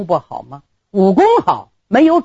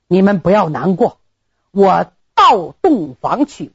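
ordinary delivery, nothing marked

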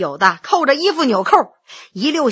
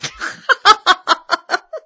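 big booming laugh; hearty laugh; 6 semitones higher than usual. A narrator's reading. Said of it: "不由哈哈大笑".

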